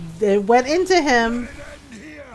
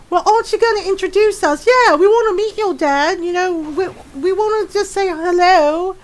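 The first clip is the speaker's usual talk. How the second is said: higher-pitched mock pleading; imitated eager pestering; 6 semitones higher than usual. Friends begging to be introduced to a dad, mock eager. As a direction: play a gaggle of pushy friends.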